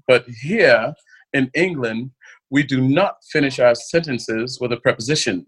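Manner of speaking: a hint of a prim English correction; lightly voiced British lady scolding politely. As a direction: correct her like a stuffy Londoner. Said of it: "And she says".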